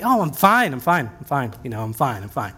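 a put-upon martyr trailing off into a grumble; passive-aggressive I'm fine. Retold or imitated. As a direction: insist you're fine while clearly not. Martyr insisting she's fine.

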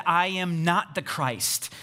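slow reading with weight on "not"; slow right down and stress "not"; emphatic denial. Retold or imitated. Preacher reads John's testimony to the family, emphatic denial. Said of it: "the emphatic nots of John".

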